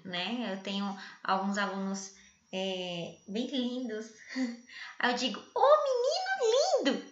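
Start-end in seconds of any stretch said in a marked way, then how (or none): 5.5-7.0 sky-high mock-sweet call, louder; sarcastic sugary compliment to an ugly pupil; ironic praise. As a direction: gush over the boy while meaning the opposite. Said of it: "A ironia é quando você fala uma coisa querendo dizer o contrário".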